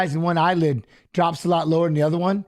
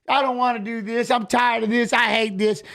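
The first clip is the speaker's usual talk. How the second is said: whiny gripe a little higher in pitch; complaining; 3 semitones higher than usual. Retold or imitated. Fighter retelling his griping at practice, complaining. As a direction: moan about having to do it. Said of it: "just bitching and complaining".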